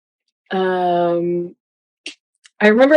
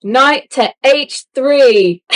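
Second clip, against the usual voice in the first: mock British accent; 5 semitones higher, much slower than usual. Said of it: "I always say".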